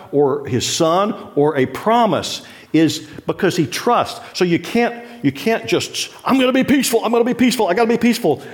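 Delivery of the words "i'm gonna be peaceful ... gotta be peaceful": mock frantic believer. Preacher mocks a believer straining for peace, high and strained. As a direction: force yourself calm through clenched effort.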